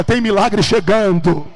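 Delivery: loud, drawn-out proclamation; prophetic declaration. Shown as a demonstration. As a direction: proclaim it for the congregation to echo. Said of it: "Põe a mão no teu irmão e diga". (proclamação profética em voz alta)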